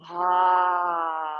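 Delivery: big open-mouth sigh on the exhale; dramatic sigh. Shown as a demonstration. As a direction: let the whole breath go out the mouth. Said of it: "Big sigh when you're ready".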